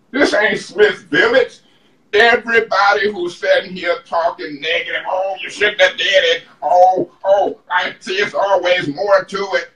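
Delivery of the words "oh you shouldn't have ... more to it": lightly mimicking the other council members; mocking imitation. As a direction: make fun of colleagues' second thoughts. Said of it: "tone of voice and that voice".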